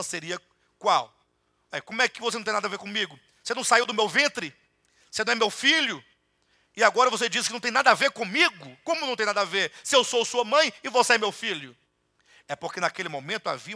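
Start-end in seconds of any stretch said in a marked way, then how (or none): 1.8-11.8 louder, higher hurt protest; a hint of an offended mother; indignant mother. Mary's indignant reply voiced.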